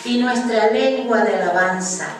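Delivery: emphatic, measured psalm reading; proclaimed Bible verse; scripture reading. Acted. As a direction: read the psalm out firmly to a congregation. Reads the psalm aloud to congregation.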